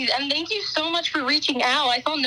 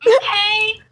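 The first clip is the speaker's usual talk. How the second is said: loud, high mock okay; imitating host's okay; 6 semitones higher, 9 dB louder than usual. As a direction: copy her signature okay. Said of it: "Oh my God, the amount of times I go, "Okay".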